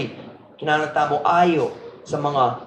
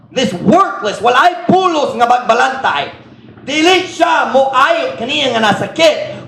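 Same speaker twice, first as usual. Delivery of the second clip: raised, higher, near-shouting rebuke; condemning bad shepherds; 5 semitones higher than usual. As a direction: thunder God's judgment on the worthless shepherd. Preacher voicing God's condemnation.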